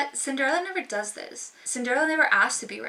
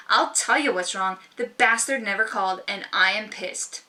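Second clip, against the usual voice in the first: firm, louder, no hedging; assertive; 5 dB louder than usual. Shown as a demonstration. Telling a friend straight out why she's angry, firm and loud. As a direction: state it with full confidence. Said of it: "just saying those sentences differently".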